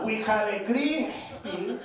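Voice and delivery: "crispy" drawn out very slowly. Retold or imitated. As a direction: stretch "crispy" deliberately. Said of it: "Say it slower".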